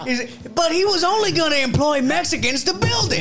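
laughing while talking. Real, not acted.

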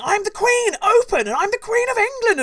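queen demanding entry, mock shout; retold shouting. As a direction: call out indignantly at the door. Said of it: "she ends up shouting at the doors".

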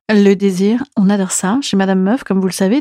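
low, smooth seductive purr; suave voice. Acted. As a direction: play it sultry and smooth. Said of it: "je vais prendre une voix suave".

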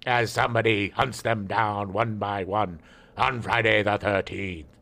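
deep slow trailer announcer; movie trailer voice. Retold or imitated. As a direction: boom it out like a trailer. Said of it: "advertisement sounded like".

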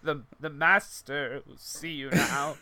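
slow, ominous butler voice; creepy butler. Pretend. Creepy servant joke.

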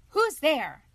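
loud, high challenge; brave call. A narrator's reading. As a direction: call out boldly to an intruder. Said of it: "she called bravely".

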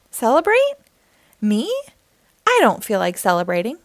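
scoff, then grumble it; grumpy refusal. Acted. Grumpy monkey refuses again.

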